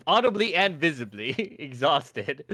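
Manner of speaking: laughing. Real, not acted. Repeating with a laugh.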